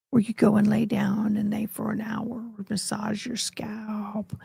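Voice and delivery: put-on Southern drawl. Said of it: "I'm talking like that on purpose".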